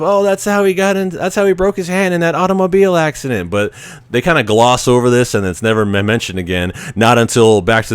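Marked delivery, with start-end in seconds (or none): 0.0-3.5 high, put-on motherly voice, quicker at the end; a high, fussy mom voice blurting it out; imitating Marty's mom. Mom letting it slip to Marty, high put-on voice. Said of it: "Marty's mom says something to the point of".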